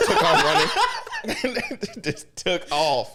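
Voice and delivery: slow words squeezed through real laughter; cracking up at the joke; laughing. Real, not acted. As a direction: laugh while getting it out. Laughing at own bit.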